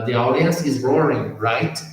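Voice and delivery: "The audience is roaring" said clearly as the example; model sentence. Shown as a demonstration. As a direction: give the model line cleanly. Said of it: "Então, seria".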